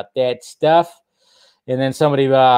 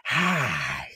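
put-on slow, halting little-boy greeting; little kid voice; 4 semitones higher, much slower than usual. Mocking co-host as little boy greeting talk show. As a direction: play a shy little kid saying hi. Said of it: "little Scott Mendelson".

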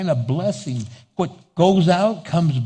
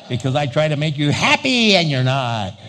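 laughing outburst. Real, not acted. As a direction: throw it out laughing.

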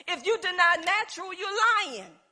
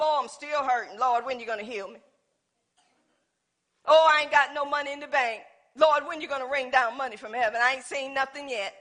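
low, quick, mock whining to the Lord; a hint of whiny complaint; 3 semitones lower, faster than usual. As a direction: grumble like a sulky believer. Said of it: "we get into the word of God".

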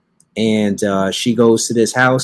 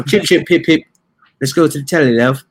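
higher-pitched mock British accent; 4 semitones higher than usual. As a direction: ham up a cheery British caricature. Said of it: "that British accent".

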